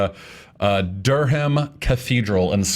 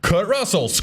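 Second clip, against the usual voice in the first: deathbed cry, lighter take; 8 semitones higher than usual. Pretend. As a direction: call the name out once more, lighter. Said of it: "And he didn't go".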